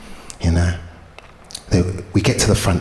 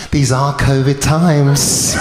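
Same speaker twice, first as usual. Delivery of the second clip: slow, amused line with a laugh; drawn-out teasing excuse; smug excuse; 3 semitones higher, much slower than usual. Retold or imitated. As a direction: savour it, laughing. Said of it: "She goes".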